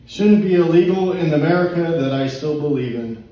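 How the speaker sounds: spoken-word closing line; poetry reading. Acted. Poet ends poem for pub crowd, poetry reading. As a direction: land the poem's last line.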